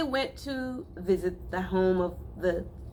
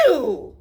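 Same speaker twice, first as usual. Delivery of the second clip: disgusted groan; 7 semitones higher, 7 dB louder than usual. Acted. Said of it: "groaned the City Mouse".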